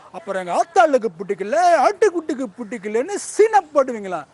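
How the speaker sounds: Sivakarthikeyan dialogue. Shown as a demonstration. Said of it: "Sivakarthikeyan பேசியிருப்பாரு".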